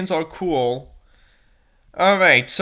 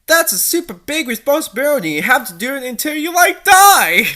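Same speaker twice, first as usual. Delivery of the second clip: mock teen girl; 4 semitones higher, 3 dB louder than usual. Voicing teen character dialogue.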